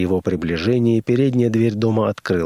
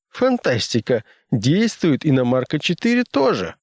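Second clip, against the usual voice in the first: character voice; 9 semitones higher than usual. Acted. Fredericks voiced by narrator.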